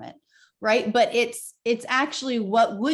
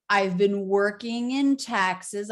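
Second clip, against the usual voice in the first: "I've been working in taxes" drawn out slowly; slow stretched; 2 semitones lower, slower than usual. Shown as a demonstration. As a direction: stretch the stressed syllables. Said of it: "a little bit more of the".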